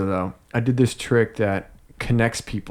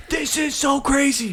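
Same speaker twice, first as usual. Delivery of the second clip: wild guy voice; slower than usual. Retold or imitated. Imitating man who threw chair.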